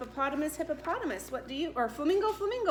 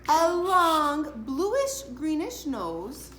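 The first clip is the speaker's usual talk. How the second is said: spooky slow; slower than usual. Acted. Reading scary monster book slowly.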